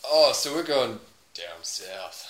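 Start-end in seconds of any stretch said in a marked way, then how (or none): 1.4-2.3 slow mock Southern accent. Player taking up the challenge, slow Southern accent. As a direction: draw it out in Southern American. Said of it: "Southern American".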